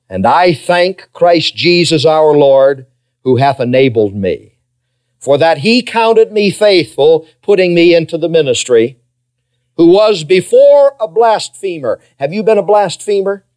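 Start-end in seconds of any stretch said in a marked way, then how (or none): 0.1-12.0 slow, measured Bible reading; deliberate verse reading with drawn-out phrases; slow scripture reading. Real, not acted. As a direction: read it slowly so it sinks in. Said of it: "I'm going to read it slowly".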